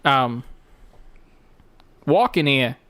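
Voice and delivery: light Walken voice, odd pauses; Christopher Walken impression. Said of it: "he'd just be behind the scenes like".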